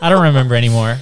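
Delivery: words through a laugh. Real, not acted. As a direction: laugh as you say it. Laughing while speaking.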